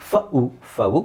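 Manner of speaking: slow ಫವು, split fa-u, then joined; teacher's slow model of ಫವು; first variant. Shown as a demonstration. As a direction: sound out ಫವು with a short a gliding to oo. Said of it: "ಎರಡು ಥರನೂ ಹೇಳ್ಬೋದು".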